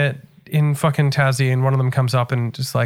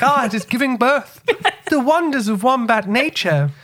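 mock awed onlooker; 9 semitones higher, slower than usual. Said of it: "they were just like".

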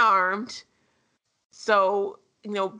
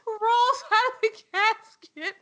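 cracking up mid-sentence; laughing while telling; 11 semitones higher than usual. Real, not acted. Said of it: "I just will never get over".

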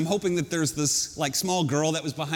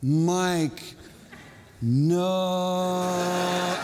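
long-held "no", only a little louder; mock loud plea. Kid pleading up at counselor on the platform, mock loud call. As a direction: imitate a desperate call, drawing out the no. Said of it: "in my loudest voice again".

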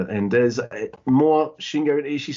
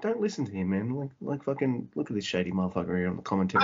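softer, hushed mock aside; conspiratorial aside; 3 semitones lower, 6 dB quieter, faster than usual. Wrestler turning the referee against the commentator, quiet mock aside. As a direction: act out quietly bad-mouthing someone to the ref.

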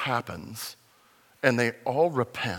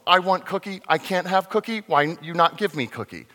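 put-on higher, louder whiny child; kid tantrum again; 6 semitones higher, 6 dB louder than usual. Preacher repeats the child's tantrum, whiny and loud. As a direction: whine like a kid begging for cookie. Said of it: "like a kid that just says".

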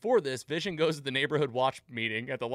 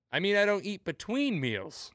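higher, altered voice, stiff and prim; imitating Vision; 8 semitones higher than usual. Vision covering his slip to the neighbors, high prim imitation. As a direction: correct yourself like a polite android, pitched up. Vision quoted correcting himself.

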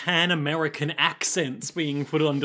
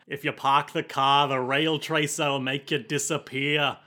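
put-on mild Boston accent. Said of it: "Boston accent".

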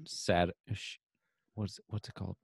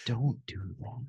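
slow, soft pleading voice; slow mock plea; 4 semitones higher, 5 dB quieter, slower than usual. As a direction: drag it out, half-pleading. Mock protest to mom.

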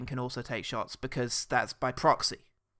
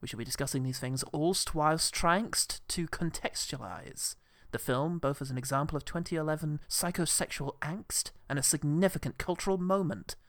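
stuffy film critic host; 3 dB quieter than usual. Acted. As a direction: savour every word like a critic. Hosts mock film review show.

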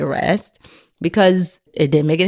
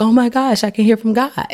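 higher-pitched new-believer thrill; mock excitement; 6 semitones higher than usual. New believer hearing from God, acted excitement. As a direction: lightly act out amazed delight, pitch raised.

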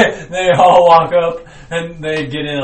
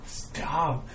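angry Mickey Mouse; 3 semitones higher, 6 dB louder, slower than usual. Acted. Mickey Mouse yelling at Pooh over his money. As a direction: yell it like a greedy boss losing money.

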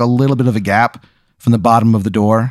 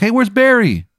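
very high, squeaky little bee; chirpy high insect voice; tiny bee voice; 12 semitones higher than usual. Acted. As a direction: pitch way up like a tiny bee talking. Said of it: "you hear from outside".

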